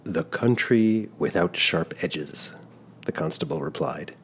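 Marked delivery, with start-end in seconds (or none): 0.0-2.5 immense courtesy. Acted. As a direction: answer with grand politeness, slowly. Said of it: "with such immense courtesy".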